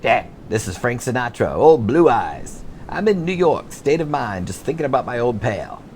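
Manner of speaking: hammed-up lounge singer; impression of a classic crooner. Prank answering machine message, mock crooner. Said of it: "It's a terrible Sinatra impersonation".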